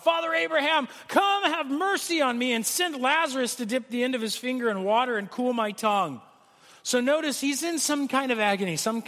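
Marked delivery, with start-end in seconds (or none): 0.0-6.2 high, pleading call across the distance; calling out from torment. Acted. Rich man in torment calling out to Abraham, high and pleading. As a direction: cry out to Abraham from far off. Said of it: "And he called out".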